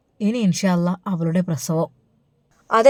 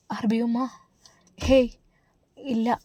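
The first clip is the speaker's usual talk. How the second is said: hiding sadness; 4 semitones higher, 4 dB quieter, slower than usual. Acted. Daughter hiding her distress.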